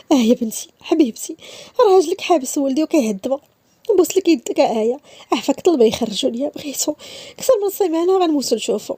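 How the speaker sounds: desperate plea. Acted. Mother pleading with Aya, desperate. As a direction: beg her daughter-in-law for help.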